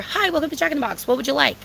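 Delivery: quick, soft drive-thru opener; practiced, friendly order-taker patter; friendly greeting. Acted. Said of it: "'cause it's friendly".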